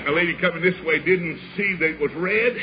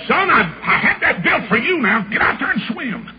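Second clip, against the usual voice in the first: father urging; 5 semitones higher than usual. Retold or imitated. Voices his father urging him in.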